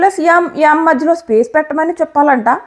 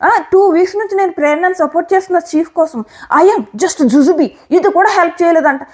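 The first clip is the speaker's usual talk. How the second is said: mocking whine; 2 semitones higher than usual. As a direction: parody her self-pity in a dragged-out whine. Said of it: "మళ్ళీ అంటుంది".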